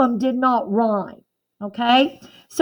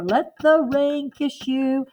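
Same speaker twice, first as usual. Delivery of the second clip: poem reading. Shown as a demonstration. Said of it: "I don't really hear a rhythm here".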